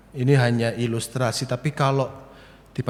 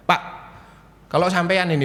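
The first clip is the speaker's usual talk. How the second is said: put-on slightly odd regional Indonesian accent, pitched up; logat agak aneh; 5 semitones higher, faster than usual. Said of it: "logat saya kok agak aneh ini". (logat daerah yang agak aneh)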